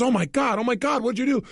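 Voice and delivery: woman shocked by his bleeding hand, mock alarm; mock freaking out. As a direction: play her alarm at the blood, lightly. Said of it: "She immediately freaks out".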